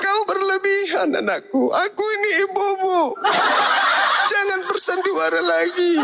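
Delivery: mother refusing to play along; indignant mother. Acted. Mother telling her son to stop pretending, high and indignant.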